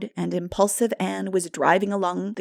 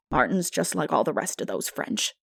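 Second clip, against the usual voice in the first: put-on lower, scornful older woman; a touch of disgust; 4 semitones lower than usual. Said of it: "said Marilla in disgust".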